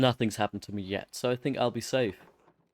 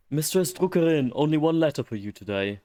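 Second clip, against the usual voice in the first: courier voice; 6 semitones higher, 5 dB louder than usual. Acted.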